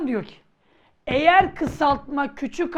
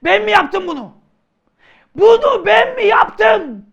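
shouting back; 9 semitones higher, 11 dB louder than usual. Acted. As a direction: protest loudly that it wasn't your doing. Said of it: "Bana niye bağırıyorsun?".

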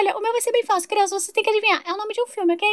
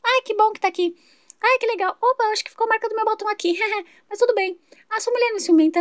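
slightly higher, gushing neighbour voice; chatty new neighbour; 4 semitones higher than usual. Acted. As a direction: play the overexcited new neighbour Sandra. Vizinha beija e flerta. (vizinha empolgada e tagarela)

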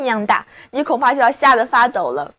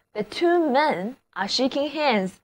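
slow and softer repeat; slow model reading; 5 dB quieter than usual. Shown as a demonstration. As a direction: repeat the sentence slowly for students. (慢速轻声重复例句)

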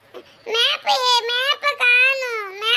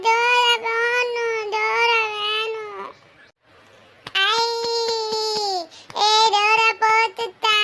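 slow, lower tearful whine for the TV show; whiny crying; 3 semitones lower, slower than usual. Real, not acted. Child whining for Dora show. (அழுகையுடன் சிணுங்கல்)

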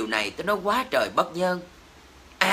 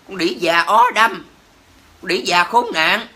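angry insults punched out word by word; seething, emphatic name-calling; real anger; 4 dB louder than usual. Real, not acted. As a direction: curse them out, loud and heated. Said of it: "cực kỳ nóng".

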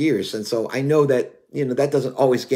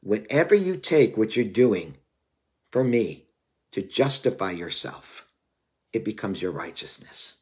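voice of God; 2 semitones lower than usual. Retold or imitated. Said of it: "He said".

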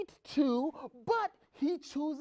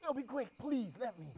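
much lower and softer, hushed; sneaky whisper; 6 semitones lower, 8 dB quieter, faster than usual. Acted. Soldier urging David beside sleeping Saul, hushed whisper. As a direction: whisper so the king won't wake.

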